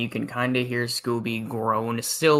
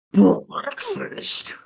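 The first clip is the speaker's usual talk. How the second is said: excited gasp; 7 semitones higher than usual. Pretend. Monster wakes excited for food.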